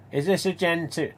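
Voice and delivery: high, whiny put-on voice of a pestering fan; mock fan question. Mocking a fan who messages at three in the morning, whiny.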